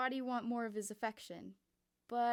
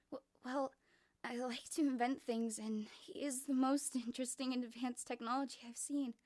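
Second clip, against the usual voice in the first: flustered Miu; 3 semitones higher than usual. Acted. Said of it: "stuttering and blushing".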